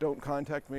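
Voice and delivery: ordinary talk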